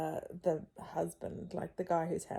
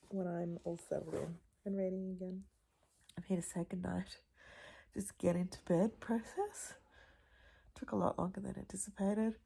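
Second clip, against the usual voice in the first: late-night whisper; 6 dB quieter than usual. Real, not acted. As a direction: whisper it softly in a dark house. Late-night goodnight, kids asleep.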